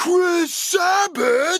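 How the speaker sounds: very high, top-of-lungs yell with one word stretched out. Recounting a fan who shouted their name in a crowd, retelling a fan's yell. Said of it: "he yells at the top of his lungs".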